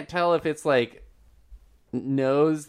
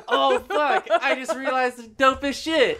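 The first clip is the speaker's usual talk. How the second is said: excited; 11 semitones higher than usual. Real, not acted. Sudden excited realization.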